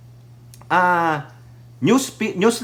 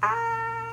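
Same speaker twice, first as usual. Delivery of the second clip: high laugh; 8 dB quieter than usual. Real, not acted. Mocking laugh.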